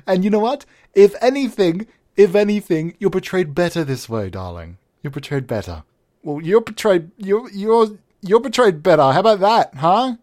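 high, theatrical luvvie voice; flamboyant director. Acted. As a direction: play the darling-dropping director.

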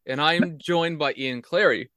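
talking through a mouthful of pretzels; words around a bite of food; mouth full. Real, not acted. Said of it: "I actually have food in my mouth".

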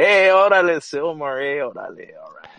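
hammed-up Cholo call, starting high and loud; exaggerated Cholo accent, loud opening that tails off; mock Cholo accent. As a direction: imitate a Valley Cholo hollering. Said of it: "they'll say so, something about Sylmar".

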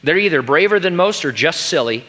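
a hint of a fussy, knowing character; Missus Beaver. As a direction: read it as an emphatic character line. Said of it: "said Missus Beaver".

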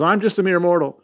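high, hammed-up awed mortal; mock gasping Jane. Jane meeting Heimdall, high hammed-up gasp. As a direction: gasp it out like a swooning heroine. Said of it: "she gasps and goes".

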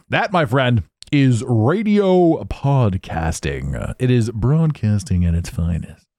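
slow, drawn-out radio announcer delivery. Shown as a demonstration. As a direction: stretch it like a big radio host. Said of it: "I have a good announcer voice".

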